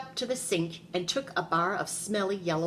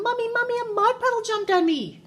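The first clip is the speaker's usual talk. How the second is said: put-on very high, sustained child's yell; loud high-pitched alarm call; 5 dB louder than usual. A narrator's reading. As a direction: wail it high and loud to Mommy.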